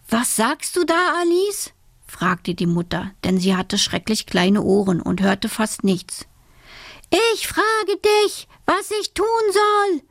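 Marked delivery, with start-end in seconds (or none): 0.1-1.7 high, rising puzzled question; hard-of-hearing mother. A narrator's reading. Nearly deaf mother asks Alice to repeat, high and rising. 7.3-10.0 put-on girl shouting. A narrator's reading. Alice shouts to her deaf mother, high and insistent. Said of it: "schrie Alice ganz laut".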